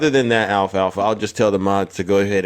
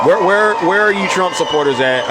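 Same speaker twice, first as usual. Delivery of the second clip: calling out; 6 semitones higher than usual. Real, not acted. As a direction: shout out for the Trump supporters. Calling out to chat viewers.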